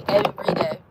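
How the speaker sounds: unvoiced, airy echo; a hushed afterthought for emphasis; breathy repeat. Real, not acted. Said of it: "She saved my life every day".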